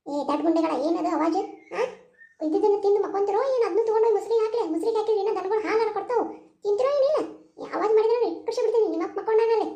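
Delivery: put-on loud, fast scolding of the kids; scolding aunt. Aunt scolds the children for making noise at night, loud and angry. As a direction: tell the noisy children off sharply.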